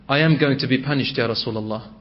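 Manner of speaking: low, fading words of despair; despairing whisper-soft. Retold or imitated. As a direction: let the voice sink away in hopelessness. Tha'laba despairs before the Prophet.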